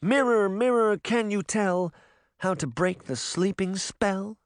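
mirror incantation. A narrator's reading. Queen chants the mirror summons.

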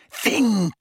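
high, exasperated repeat; pointed, impatient command. A narrator's reading. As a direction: insist on it impatiently. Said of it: "impatient again".

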